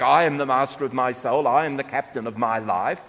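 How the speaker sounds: a hint of puffed-up self-importance; mock grandiose. Preacher mimicking a proud man, mildly grandiose. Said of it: "You can say that in a grandiose way".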